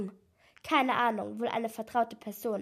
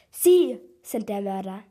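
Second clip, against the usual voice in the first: louder, startled call-out; surprised accusation; 7 dB louder than usual. A narrator's reading. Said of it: "rief ich überrascht".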